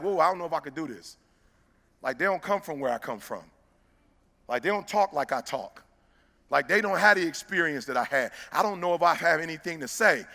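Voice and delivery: low, hushed inner voice; quiet, low-pitched admission of insecurity; private self-doubt. Retold or imitated. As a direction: drop low and soft, as if doubting yourself. Retelling his private self-doubt.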